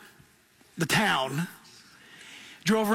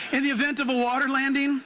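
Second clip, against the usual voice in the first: chirpy announcement, pitched higher; mock flight attendant; 6 semitones higher than usual. Mocking airline safety talk, higher chirpy attendant voice. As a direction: play the cheerful cabin crew. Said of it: "they'll tell you".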